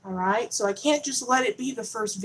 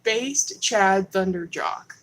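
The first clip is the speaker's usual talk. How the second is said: drawn out, louder announcement; slow loud name read; 5 dB louder, much slower than usual. Shown as a demonstration. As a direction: savor each syllable of the name. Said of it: "Let me read it one more time".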